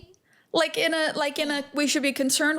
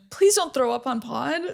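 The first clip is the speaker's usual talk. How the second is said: laughing. Real, not acted. Laughing pleading.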